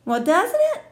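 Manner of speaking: very high, loud, rising pleas; bossy girl begging for agreement; pushy excitement. Acted. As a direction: pester them to agree, squealing. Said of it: "she asked".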